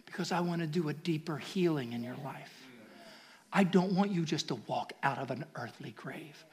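God answering the believer, hushed and tender. Retold or imitated. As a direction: speak softly as the Lord. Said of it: "you can hear him say".

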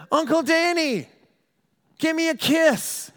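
put-on high, slow little girl voice; little niece again. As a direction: stretch it out like a small child begging for a kiss.

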